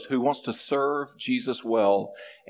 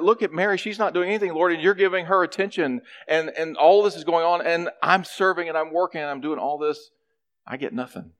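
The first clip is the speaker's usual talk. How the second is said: exasperated complaint; 5 semitones higher than usual. Acted. Martha complains to Jesus that Mary does nothing, exasperated. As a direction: pour out the grievance, then sink.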